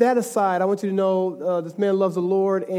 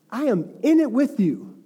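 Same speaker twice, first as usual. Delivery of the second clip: slow, higher, weight on "in"; emphatic assurance; 4 semitones higher than usual. Acted. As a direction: stretch it out and stress IN. Voicing God's assurance, building emphasis.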